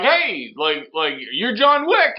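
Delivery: mock-chirpy courier at the door; postal worker.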